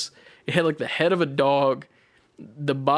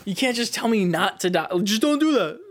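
high-pitched mock-indignant comeback; retold frustrated protest; exasperated; 7 semitones higher than usual. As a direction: argue back high, in comic disbelief. Retold exasperated comeback to useless advice.

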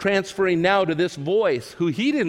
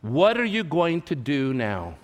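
slow inner question; 3 semitones lower, slower than usual. Retold or imitated. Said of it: "the question that kept going over".

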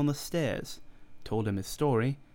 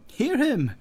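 high, loud mocking cry; loud jeer; 13 semitones higher, 7 dB louder than usual. A narrator's reading. Stranger to Fettes, loudly jeering at McFarlane. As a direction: crow over him loudly.

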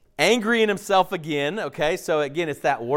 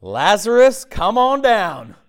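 calling out, drawn out and louder; 4 semitones higher, 5 dB louder, slower than usual. Retold or imitated. Jesus calling Lazarus out of the tomb, a drawn-out loud call. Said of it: "he shouted with a loud voice".

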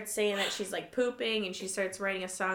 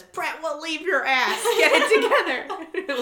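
slow, much louder and higher, half laughing; mock scolding bark, dragged out; bossy Big John; 8 semitones higher, 11 dB louder, slower than usual. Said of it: "Big John says".

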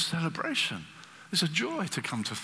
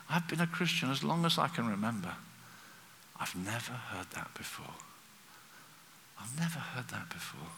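hushed, much softer imitation of a moved woman; retold tearful confession; 3 semitones lower, 8 dB quieter than usual. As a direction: drop almost to a whisper, in wonder. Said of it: "she came and she's crying".

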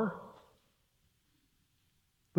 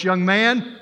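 a touch of mock sternness, slightly raised; stern pastor; 2 semitones higher than usual. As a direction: pastor lays down the vows with mild mock severity. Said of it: "he said in a very stern voice".

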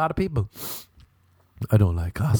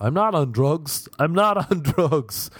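laughing protest; 5 semitones higher than usual. Retold or imitated. Protesting live on air.

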